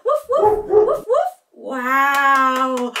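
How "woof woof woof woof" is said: high, quick pretend barks; high-pitched woofs for kids; playful dog barking. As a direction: bark back like a friendly dog. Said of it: "Let's woof back".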